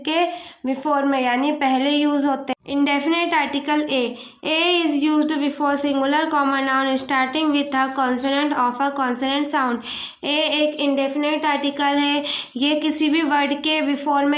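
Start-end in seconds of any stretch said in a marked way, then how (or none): 4.4-9.8 very slow, word by word, for notes; slow dictation. Shown as a demonstration. Teacher to class, dictating the grammar rule slowly. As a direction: dictate the rule so students can write it.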